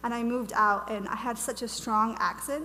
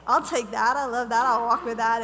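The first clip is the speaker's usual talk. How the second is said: louder, delighted yes to the angel; eager acceptance; 8 dB louder than usual. Retold or imitated. Speaker retelling her reply to the angel, eager and loud. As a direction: grab the calling with both hands. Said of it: "And I was like".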